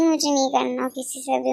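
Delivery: ordinary delivery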